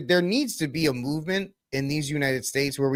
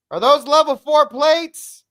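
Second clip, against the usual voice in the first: high, loud, slow hammed-up yell; mock yell; 13 semitones higher, 8 dB louder, slower than usual. Guy in the woods yelling at fake agents, high mock yell. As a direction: yell it back in a squeaky put-on voice. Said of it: "the guy yells back".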